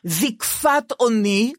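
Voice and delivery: "זקפת" said slowly as zikfat, with hiriq; slow "זקפת" with a clear i; hiriq pronunciation. Shown as a demonstration. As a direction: savor "זקפת אוני" with hiriq vowels. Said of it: "עם חיריק בזה".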